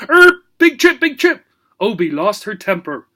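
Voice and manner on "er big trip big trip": very high, loud parrot squawk; shrieking parrot. A narrator's reading. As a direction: screech it like a parrot.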